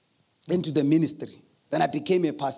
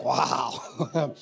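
disappointed visitors; 6 semitones lower than usual. Retold or imitated. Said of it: "It's like".

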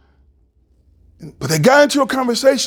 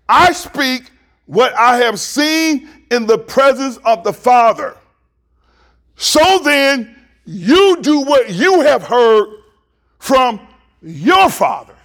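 slow, raised scripture reading with weighted pauses; slow, emphatic re-reading; 5 semitones higher, slower than usual. Real, not acted. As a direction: read it slowly, leaning on YOU and YOUR. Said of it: "Now let me read it again".

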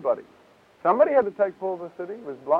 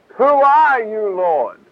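Paul asking; 3 semitones higher, 3 dB louder, much slower than usual. Acted. Preacher acting Paul's question.

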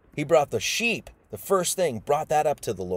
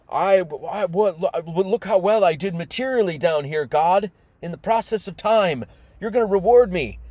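lightly acted bragging, pitched up; boastful Cain; 4 semitones higher, 3 dB louder than usual. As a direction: plead your case, building to a louder demand. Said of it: "you know, Cain".

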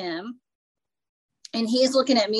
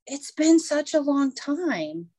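gushing lady; 6 semitones higher, slower than usual. Retold or imitated. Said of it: "And she goes".

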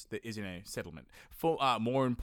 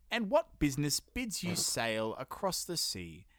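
reading an ancient quote. Acted. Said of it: "Apollonius quote".

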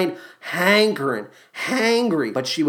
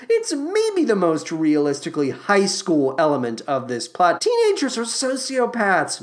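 normal talking voice

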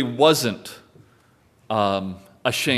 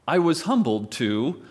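mock humble brag; 4 semitones higher than usual. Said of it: "whenever I see the words".

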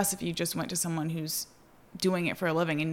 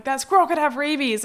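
imitating Michael; 7 semitones higher, 4 dB louder than usual. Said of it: "Michael's like".

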